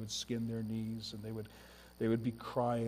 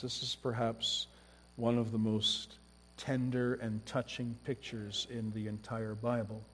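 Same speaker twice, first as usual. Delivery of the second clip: ordinary talk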